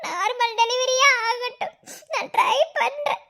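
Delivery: pleading, voice catching on tears; tearful pleading. Acted. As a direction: beg him not to spend the money. Wife pleads against operation. (அழுகையுடன் கெஞ்சும் மனைவி)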